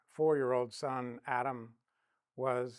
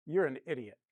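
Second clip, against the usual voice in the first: exasperated wife; 4 semitones higher, 4 dB louder than usual. Retold or imitated. Wife's retort retold.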